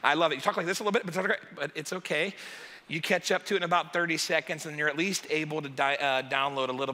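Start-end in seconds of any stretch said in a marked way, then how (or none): 0.4-1.4 sped-up patter imitating fast playback; double-speed talk. Shown as a demonstration. Pastor showing how catching up sounds, double-speed imitation. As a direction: rattle it off like a podcast on double speed. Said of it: "Have you ever heard of double speed?".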